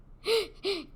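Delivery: quick, high-pitched burst of laughter; short laugh. Real, not acted. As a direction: let out a brief high laugh. Laughs while setting up skit.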